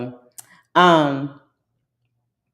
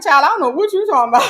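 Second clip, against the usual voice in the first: laughing disbelief; 12 semitones higher, 11 dB louder, much faster than usual. Retold or imitated. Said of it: "I said".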